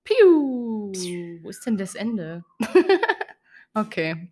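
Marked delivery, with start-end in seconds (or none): 0.0-0.9 drum roll sound. Pretend. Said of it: "so ein Trommelwirbelding".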